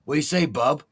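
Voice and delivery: some people greeting. Retold or imitated. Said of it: "how some people's like".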